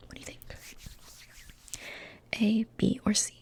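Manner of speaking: tiny far-off repeated whisper; faint layered echo. Acted. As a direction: repeat the question as a fading echo.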